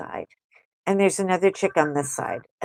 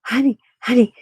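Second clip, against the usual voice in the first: a touch higher, mildly breathless-with-news excitement; acted excited news; 3 semitones higher than usual. Woman runs out to tell her honey whom she met, acted excitement. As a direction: act out bursting to tell your honey. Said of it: "I go running outside and I'm like".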